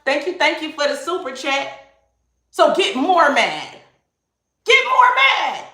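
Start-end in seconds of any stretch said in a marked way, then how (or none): 4.7-5.7 much higher, slow, sing-song mocking taunt. Shown as a demonstration. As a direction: egg them on in a high teasing voice, slowly. Taunting the angry ones.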